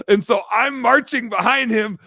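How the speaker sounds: laughing high-pitched retelling; amused laughing. Real, not acted. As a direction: tell it barely holding in laughter. Laughing at pursuing angry friend.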